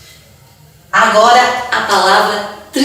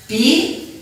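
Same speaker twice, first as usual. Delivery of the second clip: Pipa with a long gap after a high pi; separated syllables; 8 semitones higher, 3 dB quieter than usual. Shown as a demonstration. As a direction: lift pi, pause long, then pa in Pipa. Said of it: "Eu também posso separar".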